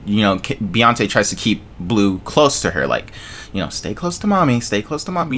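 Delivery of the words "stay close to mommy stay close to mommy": softly voiced mom, slightly higher; lightly imitated protective mother; overprotective suburban mom. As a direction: gently keep the child close, imitating a mom. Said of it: "like that overprotective white mom in the suburbs".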